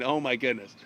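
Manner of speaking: low, subdued dread; a small sinking aside to oneself. Acted. Lancelot thinking about his night with the witch, low dread.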